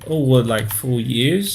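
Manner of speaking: normal talking voice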